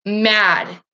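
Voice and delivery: slow, heavy, simmering grief; sad and angry. Real, not acted. Vlogger venting about heroin, slow and heavy. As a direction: drag it out, sad turning to anger. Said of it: "I'm so sad and angry".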